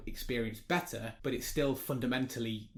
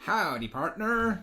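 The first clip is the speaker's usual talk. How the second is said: cowboy greeting; 6 semitones higher, 3 dB louder, much slower than usual. Pretend. Cowboy greeting for each follower.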